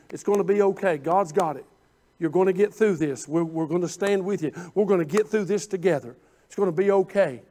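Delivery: low, soft words of comfort; gently steady someone who is struggling; quiet pastoral reassurance; reassuring. Retold or imitated. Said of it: "I'm telling 'em".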